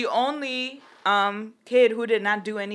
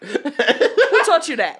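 laughing slow question; 3 semitones higher, 4 dB louder, much slower than usual. Retold or imitated. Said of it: "I was like".

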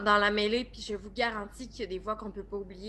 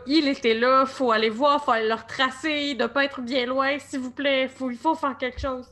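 loud, high, urgent begging; frantic plea; 4 semitones higher, 8 dB louder than usual. Acted. Barbara pleading loudly with the others to chase him. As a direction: insist he must be found now, panicking. Barbara panics that he's alive.

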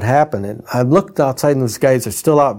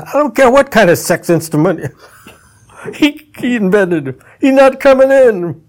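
high, loud, building to a shout at "He's not coming in"; bossy guard woman; 11 semitones higher, 5 dB louder than usual. Retold or imitated. The guard refusing entry to the couple, high and loud. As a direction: mimic a big woman flatly barring the door. Guard blocking the dressing room.

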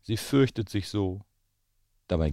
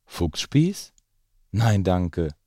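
shocked, rising cry of a fox; startled cry; 4 dB louder, much slower than usual. Acted. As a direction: recoil in alarm at the thought. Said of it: "rief darauf der Fuchs".

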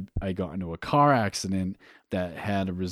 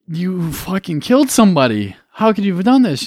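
mock accusing, pitched up high and loud; hammed-up blaming dad; imitating a father condemning his son; judging; 10 semitones higher, 10 dB louder than usual. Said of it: "not in the judging way".

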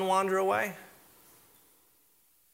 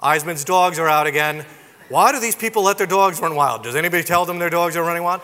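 complaining neighbors; 6 dB louder than usual. Retold or imitated. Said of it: "you'd see some of the neighbors going".

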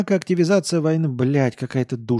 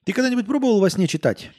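put-on much higher, fast drunken question; excited drunk; 9 semitones higher, faster than usual. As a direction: blurt it out eagerly. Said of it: "Он пьяно посмотрел".

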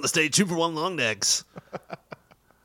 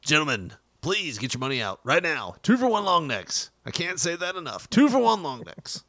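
cheesy DJ pitch; 2 semitones higher than usual. Acted. DJ hawking two for one long necks, pushy. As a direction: push the long necks like a club DJ. DJ pushing drink specials.

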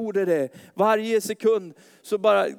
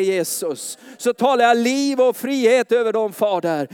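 fervent prayer; 3 semitones higher, 4 dB louder than usual. Real, not acted. Pastor praying over the congregation, building to a loud fervent cry. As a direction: pray over the church with growing fervour.

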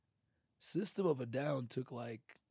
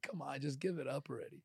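teasing; 5 dB quieter, faster than usual. Retold or imitated. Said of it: "I always mess with her like".

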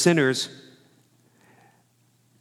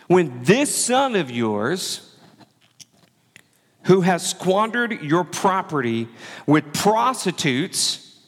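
slow, higher, scornful drawl; bitter accusation; 4 semitones higher, slower than usual. Acted. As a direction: spit out "this son of yours" with contempt. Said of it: "He's throwing a tantrum".

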